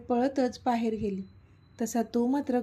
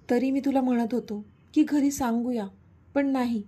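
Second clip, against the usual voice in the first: irritated scolding. Acted. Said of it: "तो चिडून बोलला".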